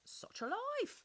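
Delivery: high, slow mocking sigh; sarcastic. A narrator's reading. Plants mocking Mamie, high slow sarcastic sigh. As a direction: drag it out with mock weariness. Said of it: "frightfully sarcastic".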